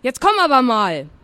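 impatient, cross call. Acted. Aunt orders her niece out at last, cross. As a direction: call her over with growing annoyance. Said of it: "jetzt war sie wirklich langsam sauer".

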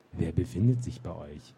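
mild mocking echo of the booming voice; mocking imitation. Captain mocks the gatekeeper to amuse his knights, mild mimicry. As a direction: ape the voice back, making fun of it. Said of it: "äffte der Hauptmann die Stimme leise nach".

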